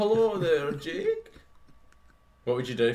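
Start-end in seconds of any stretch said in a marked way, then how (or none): 0.0-1.3 high-pitched, squeaky ogre voice. Imagining Shrek knocking at a friend's door, doing a Shrek voice. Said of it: "Just knock your door and he was like".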